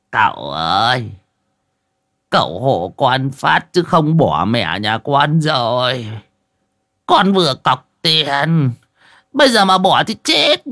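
put-on rising, slow begging old medium; pleading, half crying. A narrator's reading. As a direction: beg with a laugh near tears. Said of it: "cười như mếu".

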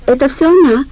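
high, loud accusing cry; shouting. Acted. Heli shouts blame at Vika to the guards. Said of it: "крикнула Хели".

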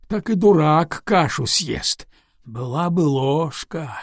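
slow, musing delivery; thoughtful. Acted. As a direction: drawl it out pensively. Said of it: "сказал раздумчиво курсант".

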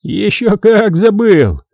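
lightly voiced smug student; mocking boy. A narrator's reading. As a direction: rub it in, smug. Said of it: "протиснулся вперёд Ветарс".

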